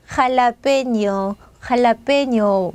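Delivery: 할라페뇨 drawn out, ending in nyo; Spanish pronunciation. Shown as a demonstration. Teacher naming the pepper in Spanish, 할라페뇨 slowly sounded out. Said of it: "자, 이렇게 됩니다".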